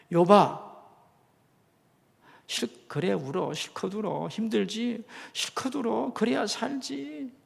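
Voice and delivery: comforting friend. Acted. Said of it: "이렇게 말해주며 격려했어야 합니다".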